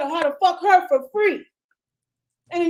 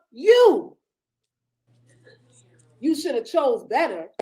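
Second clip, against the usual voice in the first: mock liar's voice. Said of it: "what they're really saying is".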